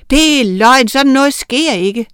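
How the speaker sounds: high, loud cry of disbelief; shouted disbelief. A narrator's reading. Mason shouting that this cannot happen. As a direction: yell it in horror. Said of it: "råbte Sand".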